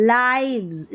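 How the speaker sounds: lives with a long I, like "lyves"; say lives right. Shown as a demonstration. Teacher showing how to say lives, eye sound. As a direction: lives said as l-eye-vz, not livs. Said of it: "इसको लाइव्स पढ़ेंगे".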